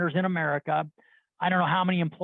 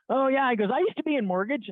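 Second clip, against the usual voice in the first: higher-pitched, eager imitation of a stranger; lightly voiced, higher chatty guy; chatty counter guy; 7 semitones higher than usual. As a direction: play the friendly guy piping up.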